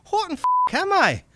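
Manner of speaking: high mocking goblin echo through laughter. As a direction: parrot the question back, amused. Goblin echoes Dennis, laughing.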